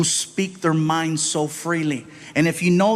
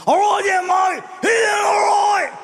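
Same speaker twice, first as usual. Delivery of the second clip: put-on much higher, loud slurred drunk pirate shout; loud, slurred, raspy drunk Aussie; 14 semitones higher, 4 dB louder than usual. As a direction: bellow like a drunk pirate underwater. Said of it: "He had more of a raspy voice".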